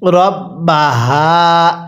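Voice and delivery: very slow, drawn-out melodic recitation; slow chanted tajweed reading; Quran recitation. Shown as a demonstration. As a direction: recite each syllable long and sung. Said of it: "কিভাবে পড়তে হবে?".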